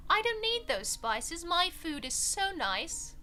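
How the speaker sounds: lightly put-on posh English accent; a hint of posh English snobbery; mock posh English. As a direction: sniff at the spices like a snooty Brit. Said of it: "the very posh English accent".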